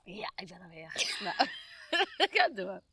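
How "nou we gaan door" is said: reluctant amusement. Real, not acted. Still giggling, pushing on.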